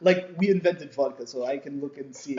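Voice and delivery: high, loud, sarcastic disbelief; mock incredulous. Traveller mocking the airport guard, sarcastic disbelief. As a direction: scoff at her as if she's absurd.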